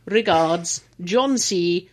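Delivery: low, mock posh sign-off; posh accent. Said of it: "Do it posh".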